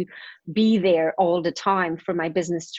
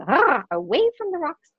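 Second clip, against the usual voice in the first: very high squawky parrot echo; shrill-pitched bird voice repeating the words; squawking parrot; 10 semitones higher than usual. Acted. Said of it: "And then the parrot goes".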